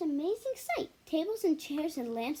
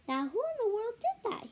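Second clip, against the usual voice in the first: a touch higher, startled demand; watchman's exclamation; 6 semitones higher than usual. A narrator's reading. Night watchman hearing a crash calls out, startled. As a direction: call out into the dark store, puzzled. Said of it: "he exclaimed".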